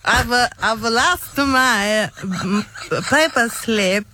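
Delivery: slow, halting mock Italian accent; best Italian accent. Ticket loser ringing the bin depot, attempted Italian accent. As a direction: grope for words in a put-on Italian accent. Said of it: "in your best Italian accent".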